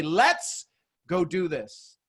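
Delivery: "Let's" drawn out, then slow "go do this"; quoted rallying line. Retold or imitated. Coach quoting a mentor leaving a meeting, slow and emphatic. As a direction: stretch "Let's" long and slow. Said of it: "he'd say".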